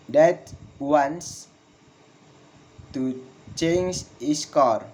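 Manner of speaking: slow, long pause after "wants", "car" falling; slow falling intonation. Shown as a demonstration. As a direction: dictate it piece by piece. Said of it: "Falling intonation in statement".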